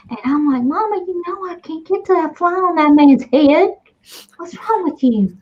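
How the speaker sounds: lightly put-on creepy fly character; Sam. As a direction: tell it as a pretend complaining fly. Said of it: "That's exactly what that voice is".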